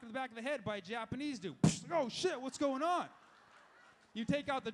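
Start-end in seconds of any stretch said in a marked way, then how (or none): 1.6-1.9 loud, sharp smack noise; sudden vocal whack; punch sound effect. Retold or imitated. Imitates a sucker punch. 2.0-3.1 higher, startled outburst; hammed-up startled reaction; mock alarm. Acted reaction to being hit.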